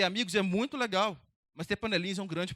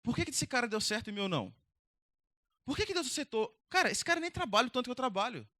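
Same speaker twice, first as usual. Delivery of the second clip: bitter Cain. Retold or imitated. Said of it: "Caim olhando pro irmão dele e falando assim".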